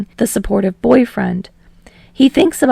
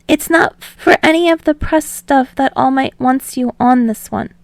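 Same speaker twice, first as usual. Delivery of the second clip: soft Midoriya voice; 4 semitones higher than usual. Acted. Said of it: "he says softly".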